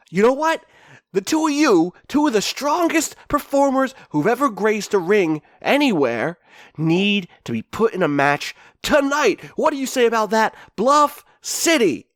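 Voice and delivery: high, hammed-up ring promo; Shaw. Wrestler pitching tonight's match to Bluff City, high showman voice. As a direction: hype the crowd, stretching out the big words. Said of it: "he's just like".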